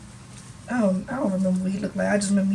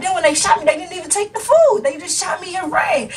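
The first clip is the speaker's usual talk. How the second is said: laughing through story; 7 semitones higher than usual. Retold or imitated. Driver's retelling, laughing.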